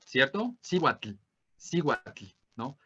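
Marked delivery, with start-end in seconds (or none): 0.6-2.2 cihuatl with a clear final L, Spanish style; cihuatl, hard L at the end. Shown as a demonstration. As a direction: say cihuatl the way a Spanish reader would, stressing the L. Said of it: "no es la pronunciación del náhuatl".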